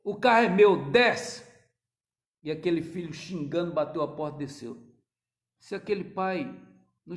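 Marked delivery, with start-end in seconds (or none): 0.0-1.5 forceful order. Retold or imitated. Preacher re-voices father.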